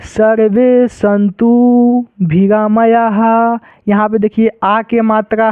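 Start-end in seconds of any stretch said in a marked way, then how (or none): 0.1-3.6 slow chanting of the line; mantra recitation. Shown as a demonstration. Teacher reciting the next line slowly. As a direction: intone each syllable slowly. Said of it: "आगे देख लीजिए".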